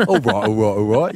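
mimicking a botched American accent; mock governor. Co-host mocking colleague's attempt, exaggerated governor accent. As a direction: teasingly parody a failed film-star impression. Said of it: "You turned full governor then".

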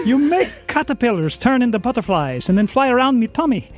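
a light, playful Irish lilt; a cheeky leprechaun. Acted.

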